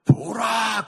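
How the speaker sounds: high, very loud proclamation; exclaimed wonder. Shown as a demonstration. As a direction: cry it out, vowels stretched. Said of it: "그럴 땐, 와, 대박!".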